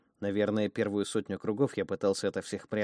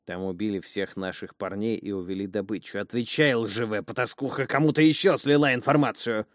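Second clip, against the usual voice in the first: menacing; 5 dB louder than usual. Acted. Boy threatens the innkeeper.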